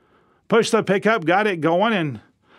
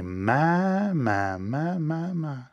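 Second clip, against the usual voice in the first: admiring my my my; 5 dB quieter, much slower than usual. Shown as a demonstration. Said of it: "you say".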